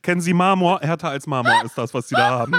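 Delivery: a dentist who can't stop laughing, lightly voiced; laughing mock dentist. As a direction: gush about her teeth through laughter. Spielt Zahnärztin, lachend. (lachend gespielte Zahnärztin)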